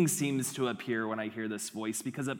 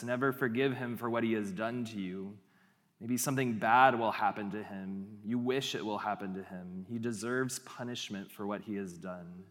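resentful inner voice; 5 semitones lower, 3 dB quieter than usual. Acted. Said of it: "the voice in your wilderness sounds like this".

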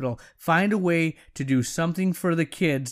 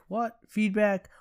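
high, startled double take; mock surprise; 5 semitones higher, 4 dB quieter, slower than usual. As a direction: act surprised at the word. Mock shock at own topic.

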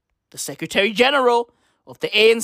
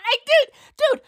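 much higher, louder "dude, dude"; high-pitched "dude" of disbelief; incredulous; 4 dB louder than usual. Real, not acted. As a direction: squeak it out in disbelief. Incredulous outburst.

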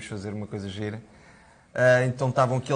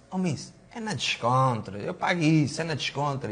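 put-on laid-back Madeiran accent; 3 semitones higher than usual. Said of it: "naquele jeitinho dele, madeirense".

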